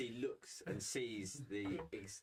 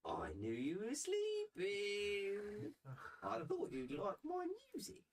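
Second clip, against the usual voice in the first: put-on high, whispered eerie kid; creepy child whisper; slower than usual. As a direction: breathe it like a spooky child. GM voices creepy child Cece.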